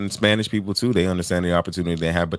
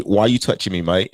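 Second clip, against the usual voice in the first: mock London accent, a little raised; 2 semitones higher, 4 dB louder than usual. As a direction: put on a London "mate" accent. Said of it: "make that London accent".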